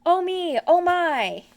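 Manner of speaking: high, loud flustered wail; alarmed cry. A narrator's reading. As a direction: Rabbit flapping in panic. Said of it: "cried Rabbit".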